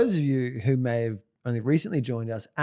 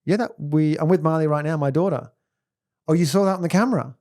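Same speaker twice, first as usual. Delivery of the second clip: fake phone call. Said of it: "the alarm goes off and I go".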